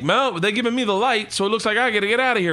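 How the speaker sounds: high, pleading put-on voice of a comic begging the crowd; mock needy comic. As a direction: ham up a comic begging them to stay. Mocking a comic begging for applause.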